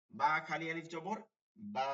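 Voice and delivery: slow, careful teacher spelling of বা খালি আলিফ জবর বা; slow spelling drill. Shown as a demonstration. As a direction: spell out বা খালি আলিফ জবর বা slowly, each piece apart. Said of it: "teacher spells out reading".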